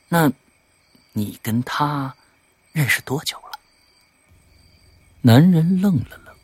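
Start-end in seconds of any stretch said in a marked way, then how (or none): 0.1-3.6 soft, slowed inquiry; hushed questioning. Acted. Visitor asking about the woman, hushed. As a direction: probe quietly, without hurry. Hushed private talk outside.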